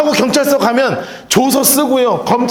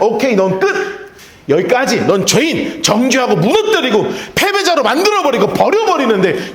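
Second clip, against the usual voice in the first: mock dismissive, laughing; 3 semitones higher than usual. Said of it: "세상의 법칙은 이렇게 얘기하면".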